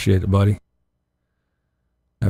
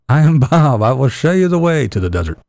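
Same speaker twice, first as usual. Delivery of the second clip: Bob voice; 4 semitones higher than usual. Pretend. Playing Bob himself.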